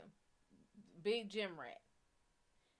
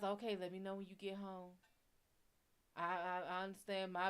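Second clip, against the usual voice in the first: mock overly sweet; 2 semitones lower, 4 dB quieter than usual. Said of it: "he tries to be overly sweet".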